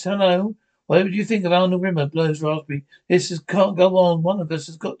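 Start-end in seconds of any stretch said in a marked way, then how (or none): 0.0-2.1 stupid voice. Acted. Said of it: "you know that stupid voice".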